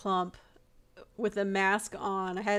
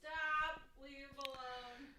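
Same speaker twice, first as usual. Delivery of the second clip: mock pleading; 5 semitones higher, 14 dB quieter, slower than usual. Pleading for crying Regal.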